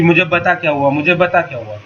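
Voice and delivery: put-on a parent snapping at the child, just a touch; mock angry parent asking what happened. Shown as a demonstration. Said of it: "गुस्से में बोल रहे हैं कि".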